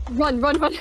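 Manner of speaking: terrified horror victim. Real, not acted. Fleeing a monster in game.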